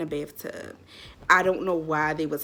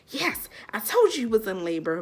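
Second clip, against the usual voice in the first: lightly imitated excited mom, a little higher; higher-pitched, gleeful quote; happy mom; 4 semitones higher than usual. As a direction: retell mom's triumphant glee. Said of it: "she's, like, happy".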